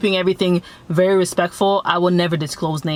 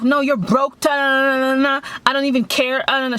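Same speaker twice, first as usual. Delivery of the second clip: mock yelling; 6 semitones higher than usual. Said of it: "she just starts going off".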